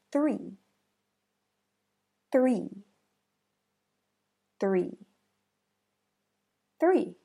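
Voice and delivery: "three" with a quick th rolling into the r; "three" with the tongue pulling straight back from the th into the r; "three" with the th and r run together fast; TH blended into R. Shown as a demonstration. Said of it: "rolls and pulls back quickly to blend".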